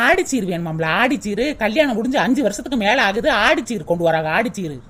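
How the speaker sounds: mocking mutter. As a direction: sneer at the gift demand under your breath. Sister-in-law mocks demand aside.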